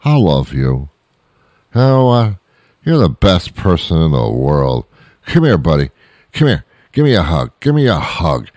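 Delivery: hammed-up affectionate drunk begging a hug; a hint of a sloppy friendly drunk; sappy nice drunk. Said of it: "they'll look at you and say".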